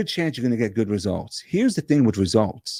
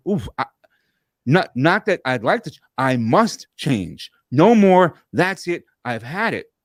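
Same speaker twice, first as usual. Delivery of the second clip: fed-up resolve; 3 semitones higher than usual. Retold or imitated. Imagined moment of despair.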